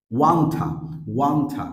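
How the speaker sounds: want to blended into ওয়ান্টা; weak form wanta. Shown as a demonstration. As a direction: run the words together as ওয়ান্টা. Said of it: "sound আসে ওয়ান্টা". (ওয়ান্টা করে মিশিয়ে বলা)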